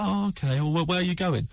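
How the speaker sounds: high, bright-eyed hostess offer, lightly done; chirpy mum voice. Retold or imitated. Comedian imitating a friend's mum offering breakfast, high sing-song.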